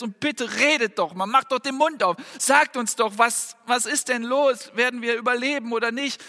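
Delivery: desperate plea. Retold or imitated. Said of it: "all ihre Hoffnung in diese Götzen".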